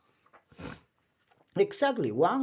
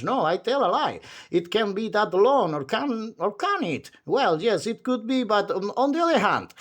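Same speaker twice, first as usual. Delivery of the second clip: endless chatterer; 2 semitones higher than usual. Acted. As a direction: ramble on brightly without pausing for breath. Chattering character voice.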